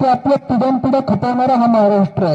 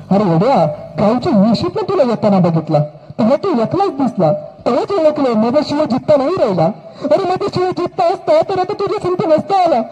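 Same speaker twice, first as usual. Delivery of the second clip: lightly voiced village mother, resigned; a touch of a weary mother; 3 semitones higher than usual. Mother to the king, sad and resigned.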